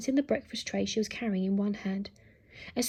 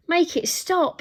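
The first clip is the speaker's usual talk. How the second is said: higher, louder desperate shout; 7 semitones higher, 6 dB louder, slower than usual. Acted. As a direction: yell for help. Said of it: "shouted Alfred".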